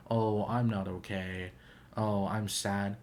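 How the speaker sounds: slow, mopey mock sadness; a hint of a droopy sad-song voice; soft sad imitation. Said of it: "like, very soft, very sad".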